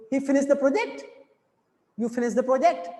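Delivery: a statement turned question by a final rise on PROJECT; asking intonation. Shown as a demonstration. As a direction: PROJECT lifted at the end. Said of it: "यानी मैं पूछ रहा हूँ".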